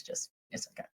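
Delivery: hoarse, voice dropping away; scratchy voice breaking to a rasp. Real, not acted. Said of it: "ignore my scratchy voice".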